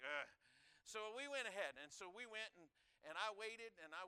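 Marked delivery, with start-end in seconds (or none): 0.0-0.3 bored grunt. Retold or imitated. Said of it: "They're like".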